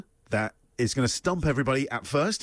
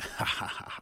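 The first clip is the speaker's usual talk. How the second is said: soft, breathy mock Dracula laugh; a quiet imitation of a villain's laugh; 4 semitones lower, 8 dB quieter than usual. Co-host showing the laughter they wanted, soft Dracula laugh. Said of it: "'cause, you know, Dracula".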